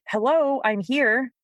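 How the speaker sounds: the ignored dog asks for notice; lightly voiced attention-seeking dog; needy dog.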